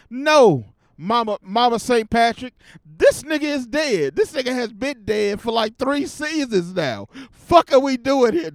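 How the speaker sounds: loud and high, fed up with her denial; exasperated loud quote. Pretend. The world telling Mama Saint Patrick Teddy is dead, exasperated loud. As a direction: yell it at her like she won't listen.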